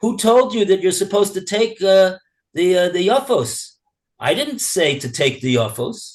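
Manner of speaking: biting sarcasm with swooping delivery. Explaining a text by acting out the owner's words: imitating a sarcastic remark. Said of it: "he's sort of saying in a sarcastic way".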